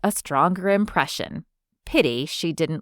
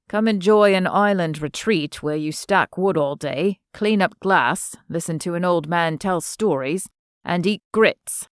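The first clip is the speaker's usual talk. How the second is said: a hint of an Englishman's teasing message; lightly voiced Englishman. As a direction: read out a playful text, lightly English.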